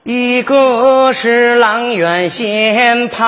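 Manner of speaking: very slow lyrical recitation; slow emotional poem reading. Pretend. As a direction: draw out each word like a poem. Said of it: "我主要让你看这个朗诵腔".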